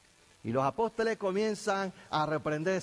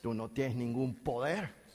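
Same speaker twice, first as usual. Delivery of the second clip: demon taunt; 7 semitones lower than usual. Retold or imitated. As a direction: deny their power like a demon. Demonio desafía a los discípulos. (demonio grave y amenazante, burlón)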